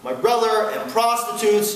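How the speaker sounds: half-hearted tantrum cry, drawn out; retold angry screaming. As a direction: blurt the accusation slowly, short of a real scream. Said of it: "he just starts screaming".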